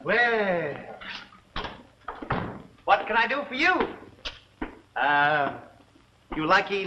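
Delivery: put-on cackling old shopkeeper, soft and sly. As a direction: play a sly old herb seller.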